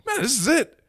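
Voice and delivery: high, loud, laughing cry that this is it; doomsday toast. Retold or imitated. To his friends, watching the news: high giddy doom toast. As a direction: raise a giddy toast to the end of the world. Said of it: "and I'm like".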